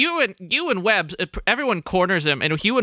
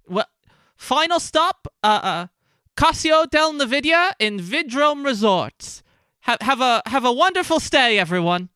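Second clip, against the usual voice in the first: fighting game announcer; 8 semitones higher than usual. Acted. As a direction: announce the final stop grandly. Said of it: "his announcer voice".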